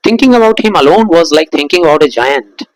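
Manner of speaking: slow, deliberate reading of the text; story reading. A narrator's reading. Teacher reading the story aloud to students, slow. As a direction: read the story line slowly, savouring it.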